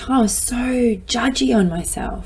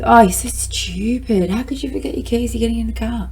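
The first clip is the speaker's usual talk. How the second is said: harsh self-scolding; 3 semitones higher than usual. Retold or imitated. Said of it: "the language that follows that is".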